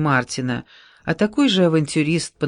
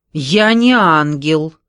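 louder, slow, bitter retort; a woman angrily rejecting praise, louder and slow; angry; 6 dB louder, slower than usual. Acted. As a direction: snap back, stressing не. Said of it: "зло ответила Вера".

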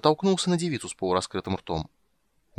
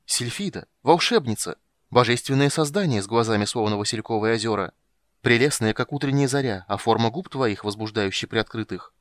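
flowery flattery; 3 dB louder than usual. Acted. Dandelion flirting with the maid.

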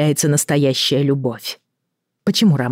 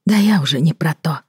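sad. Acted. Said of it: "печально произнесла Елена".

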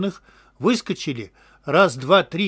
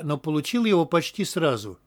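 usual speaking voice

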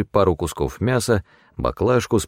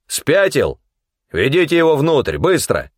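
sharp orders; 8 semitones higher than usual. A narrator's reading. Elder ordering men.

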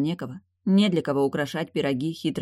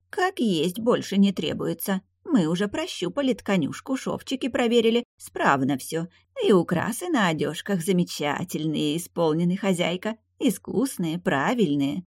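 pleased; 3 semitones higher than usual. Acted. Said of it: "с довольством в голосе".

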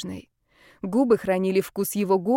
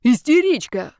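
louder, higher outburst; shouted insult; 4 semitones higher, 5 dB louder than usual. A narrator's reading. Zaretsky goading the angry girl, shouting. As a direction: hurl the insult out loud. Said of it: "выкрикнул Зарецкий".

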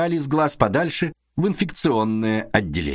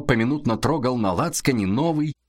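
ordinary delivery, nothing marked

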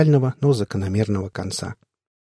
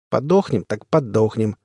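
gloating. Acted. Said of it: "сказал он почти злорадно".

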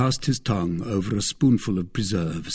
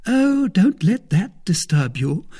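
a louder, higher eager reassurance; cried out; 10 semitones higher, 6 dB louder than usual. Acted. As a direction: hurry to calm his worry. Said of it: "cried Madame Coquenard".

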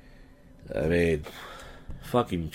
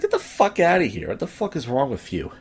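mock outrage, starting high then dropping; retold angry dismissal; 5 semitones higher than usual. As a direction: re-enact telling someone off, mildly heated. Retelling telling comic to leave.

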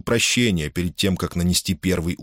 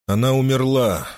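cold remark; 6 semitones higher than usual. A narrator's reading. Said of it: "холодно заметил Юлий".

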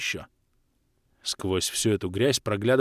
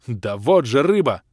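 exasperated; 5 dB louder, slower than usual. Acted. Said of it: "Уже не выдерживал я".

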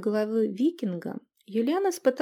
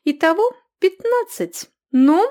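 loud, higher woman's voice, demanding; demanding innkeeper; 10 semitones higher, 9 dB louder than usual. A narrator's reading. Innkeeper demanding fifteen from the customer. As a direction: shove the bill at him.

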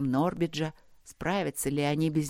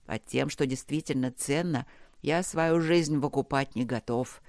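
lower, weary voice of a trapped man; delirious half-prayer; 3 semitones lower than usual. Acted. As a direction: talk to the dark, half mad and exhausted. Delirious bargaining with darkness. (бредовая полумолитва, тихо и устало)

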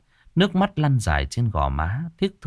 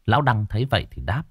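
plain reading voice

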